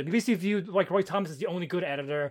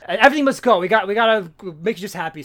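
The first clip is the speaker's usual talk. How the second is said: excited sales pitch; 6 dB louder, faster than usual. Retold or imitated. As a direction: sell it like a barker. Acting the villain's pitch.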